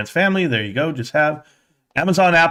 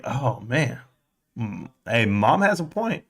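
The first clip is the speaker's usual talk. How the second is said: grudging admission; 2 semitones lower, 5 dB quieter, slower than usual. Retold or imitated. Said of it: "And I was like".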